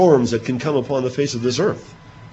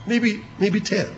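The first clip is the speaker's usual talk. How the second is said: high, slow hesitant offer; tentative last bid; 9 semitones higher, slower than usual. Acted. Abraham daring a last bid with God, in a high hesitant voice. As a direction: ease out the final number.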